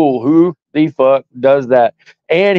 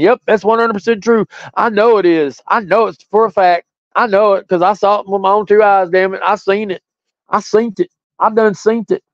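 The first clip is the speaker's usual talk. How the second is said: higher-pitched, hammed-up certainty; mock insistent witness; 5 semitones higher than usual. Host acts out inventing claims about somebody, mock insistent witness. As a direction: play a false witness swearing to it. Acting out a made-up accusation.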